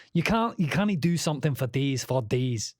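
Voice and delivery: put-on Scottish accent. Musician practising the accent he did for days, Scottish accent. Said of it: "I was doing the Scottish accent".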